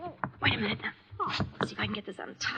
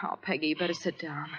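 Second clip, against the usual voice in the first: gentle whisper; 6 semitones lower than usual. Acted. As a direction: hush her down gently. Comforting a faint woman.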